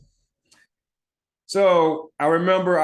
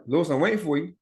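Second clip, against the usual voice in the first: slightly higher, expectant teacher imitation; lightly voiced teacher; 4 semitones higher, much faster than usual. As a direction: prompt a stalling pupil, lightly acted. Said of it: "She's like".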